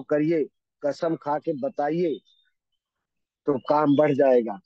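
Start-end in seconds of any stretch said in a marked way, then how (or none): 3.5-4.6 louder punchline, landing hard on बढ़; emphatic promise. Real, not acted. Speaker to audience about more sales, loud and emphatic. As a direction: drive the promise home, loud.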